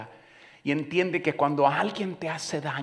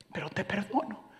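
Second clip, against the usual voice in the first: soft forgiveness; 6 semitones higher, 8 dB quieter than usual. Retold or imitated. Wife forgives, then repeats.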